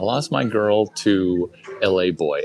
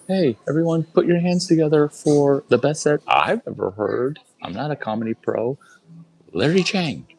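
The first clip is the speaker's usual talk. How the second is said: hype MC; 7 semitones higher than usual. Retold or imitated. Mock MC hyping a bad set.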